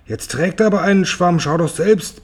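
höher, besteht darauf; lässt nicht locker, leicht gespielt; beharrlich. A narrator's reading. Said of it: "beharrte Tante Zinke". (gespieltes Beharren, höher)

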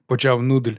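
usual speaking voice

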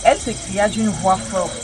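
measured scripture reading, slowing at the end; careful Bible reading slowing on the quoted words; reading aloud from the Bible. Shown as a demonstration. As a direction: read the verse out deliberately.

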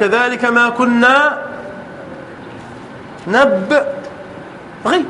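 drawn-out Quranic recitation, last word trailing softly; very slow recitation. Shown as a demonstration. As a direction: stretch each word so the missing ya is heard. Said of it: "أين الياء؟". (تلاوة بطيئة جداً ممدودة)

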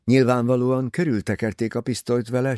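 usual speaking voice

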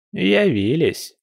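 high, drawn-out granny exclamation; old granny sighing at late arrivals, slow and high. Acted. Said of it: "вздохнула бабуля".

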